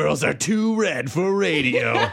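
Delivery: lightly put-on, slow showman's delivery; mock announcer. Host teasing the guest who is too red, mock announcer. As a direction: stretch it out like a teaser voiceover.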